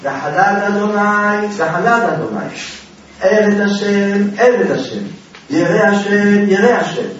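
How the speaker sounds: loud, drawn-out wail to the dead, acted; crying out. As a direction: imitate a widow calling out, stretching the words. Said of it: "וצעקה הייתה צועקת".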